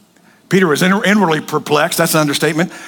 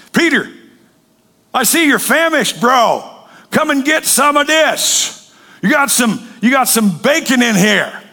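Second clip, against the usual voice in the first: higher, coaxing voice from heaven offering food to Peter; tempting heavenly voice; 3 semitones higher than usual. Acted. Preacher voicing heaven coaxing hungry Peter, playful mock buddy. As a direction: lure him in like a buddy, a touch hammed-up.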